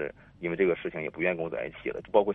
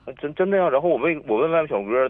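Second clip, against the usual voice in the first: emphatic insistence; 8 semitones higher, 6 dB louder than usual. Real, not acted. Insisting the story is true.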